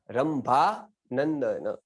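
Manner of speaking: रंभा नंदन spelled out very slowly; very slow demo. Shown as a demonstration. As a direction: drag out रंभा नंदन word by word. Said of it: "दोनों के ऊपर बिंदिया है". (बहुत धीरे रंभा नंदन)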